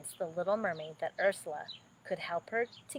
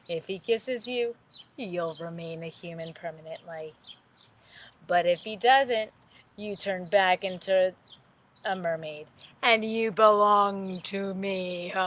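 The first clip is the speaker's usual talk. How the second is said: lightly voiced scheming witch, louder on the threats; sea witch; 4 dB louder than usual. Sea witch offering Ariel a deal, lightly voiced. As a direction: purr the deal then press the threat. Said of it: "said the witch".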